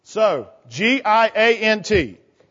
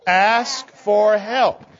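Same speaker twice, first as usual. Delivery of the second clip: put-on very slow, drawn out for kids to echo; slow call to repeat; much slower than usual. Shown as a demonstration. Leader has the children repeat it, very slow and drawn out. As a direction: stretch each word so the children can say it along. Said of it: "Can you say that with me?".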